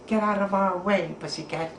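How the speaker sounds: little squeaking crab voice; squeaky land crab. Acted. Land crabs order the cat aside, squeaky voices. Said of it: "they squeaked in their land crab sort of voices".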